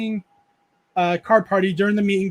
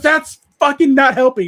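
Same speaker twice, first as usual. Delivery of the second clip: exasperated retort; 6 semitones higher, 8 dB louder than usual. Retold or imitated. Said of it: "He goes".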